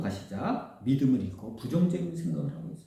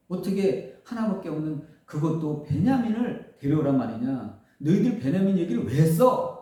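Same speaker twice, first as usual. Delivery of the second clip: angry outburst; 3 semitones higher, 4 dB louder than usual. Acted. Father Jacob scolds his sons for mentioning Benjamin, angry outburst. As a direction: scold the sons, rising into anger. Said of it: "하고 막 역정을 냅니다".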